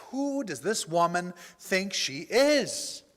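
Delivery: slow, indignant question, leaning on each word; retold anger. Driver fuming about the ungrateful woman, angry. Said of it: "and I am angry".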